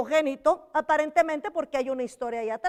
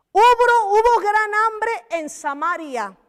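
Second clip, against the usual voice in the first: loud scripture reading; 6 semitones higher, 7 dB louder than usual. Real, not acted. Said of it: "reading scripture with force".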